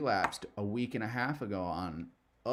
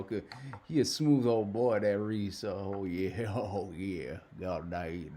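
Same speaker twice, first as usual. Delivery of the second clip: fake southern accent. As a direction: put on a joking Southern good-ol'-boy accent. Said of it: "I'll drop the southern accent".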